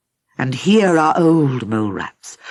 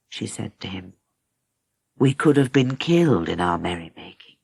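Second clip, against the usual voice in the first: low, gentle sorrowful reproach; soft as a cat, kind and sad; 5 semitones lower than usual. Acted. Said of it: "softly, soft as a cat, kind and sad".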